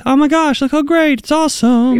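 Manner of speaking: high, gushing mock delight; hammed-up thrilled squeal of approval; happy side. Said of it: "on the happy side".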